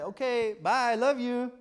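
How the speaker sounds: quick throwaway bye, I love you; rushed goodbye. Shown as a demonstration. Showing how he told his wife, rushed. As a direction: slip it in fast. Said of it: "like that".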